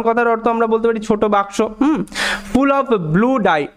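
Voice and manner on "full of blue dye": slow demo read. Shown as a demonstration. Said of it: "একটু আগে বললাম".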